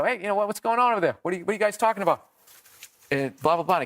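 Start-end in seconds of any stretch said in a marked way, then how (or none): 0.0-2.2 fast confrontation. Retold or imitated. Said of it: "I go".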